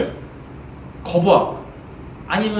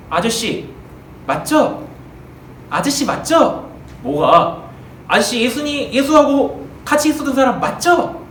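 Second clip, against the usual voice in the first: put-on pestering servant girl; 5 semitones higher, slower than usual. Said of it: "여종이 딱 베드로 옆에 가서".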